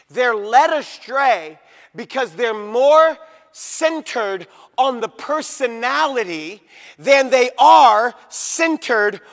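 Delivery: slow, emphatic, each key word hammered; full-force preaching. Real, not acted. Preacher explaining why they're led astray, slow and forceful. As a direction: drive the point home word by word.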